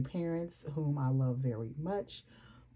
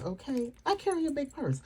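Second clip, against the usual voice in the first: emphatic insistence; 8 semitones higher than usual. Real, not acted. Insisting on big purse.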